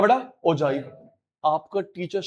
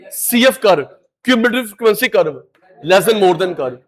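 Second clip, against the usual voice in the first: slow drilling; 5 dB louder, much slower than usual. Shown as a demonstration. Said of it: "teacher drilling terms slowly".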